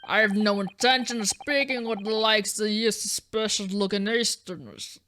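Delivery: a hard Scottish warden putting a visitor in his place; Scottish prison governor. Acted. Prison governor greets the lawyers in a thick Scottish brogue. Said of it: "can't decide on the voice".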